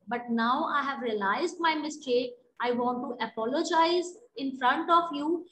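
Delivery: teacher demonstrating a regretful letter to a friend, sincerely; sincere apology tone. Shown as a demonstration. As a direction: own the mistake, then reach out. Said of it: "So such kind of tone should be there".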